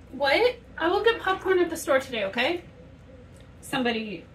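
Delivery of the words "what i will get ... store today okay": raised voice to someone in another room; calling out. Real, not acted. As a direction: call it out across the house.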